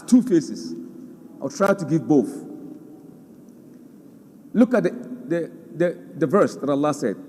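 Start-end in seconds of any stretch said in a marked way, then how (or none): none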